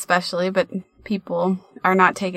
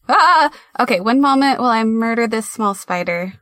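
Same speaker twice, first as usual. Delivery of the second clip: startled; 3 semitones higher, 4 dB louder than usual. Real, not acted. Spotting a spider.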